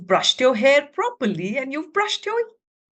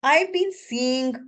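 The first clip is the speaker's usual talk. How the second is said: silly sailor. Acted. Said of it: "He said".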